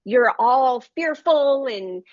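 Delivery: retold impatient advice, little sympathy; unsympathetic retelling. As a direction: tell her off with a touch of impatience. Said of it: "And I was very unsympathetic".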